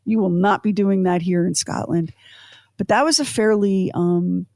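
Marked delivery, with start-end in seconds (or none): 0.0-2.1 refusing Scots. Retold or imitated. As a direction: put your foot down like a Scot. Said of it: "The Scots were like".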